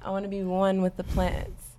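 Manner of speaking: slow, spaced-out and dreamy; stoned. Real, not acted. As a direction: talk like you're high. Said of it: "I sound so high".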